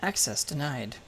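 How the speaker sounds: flat buzzing denial from a door; robot door voice. Acted. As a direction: deny access like a machine. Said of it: "The door goes".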